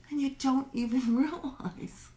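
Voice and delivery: real giggle breaking into the sentence; giggling at oneself. Real, not acted. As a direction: let a small self-amused laugh slip in. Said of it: "I'm giggling at myself".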